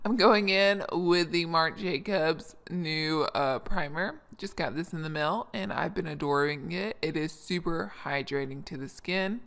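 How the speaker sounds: groggy morning rasp. Real, not acted. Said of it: "This is my morning voice".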